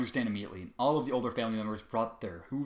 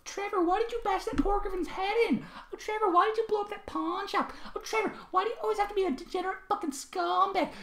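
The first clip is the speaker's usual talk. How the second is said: much higher, whiny scolding mimicry; mock high-pitched voice. A narrator's reading. Trevor mocks the ponies' questions, high mock voice. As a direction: mimic the nagging ponies mockingly. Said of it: "a mock high-pitched voice".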